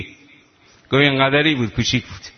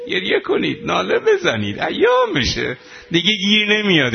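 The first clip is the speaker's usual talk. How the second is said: tearful plea; 5 semitones higher than usual. Real, not acted. Urging mourners to weep.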